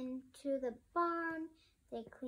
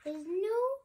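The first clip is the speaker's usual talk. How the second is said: put-on much higher, delighted little girl cub; excited girl cub; 12 semitones higher, 6 dB louder than usual. Sister cub meeting the pony, delighted and high. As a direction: squeal over the cute pony as a little cub.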